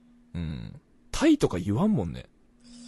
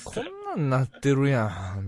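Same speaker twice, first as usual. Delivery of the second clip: lightly imitated Kansai temptress; a hint of teasing Kansai woman; Kansai dialect. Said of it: "関西弁の知女はもうほんとテンション上がっちゃう".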